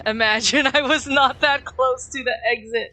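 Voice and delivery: loud, high, giddy exclaiming; exhilarated disbelief. Real, not acted. Player reliving a narrow escape, exhilarated.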